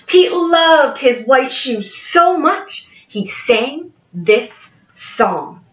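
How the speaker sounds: bright storytime voice for a class; cheerful picture book reading; reading to children. Acted. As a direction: read it like a kindergarten teacher.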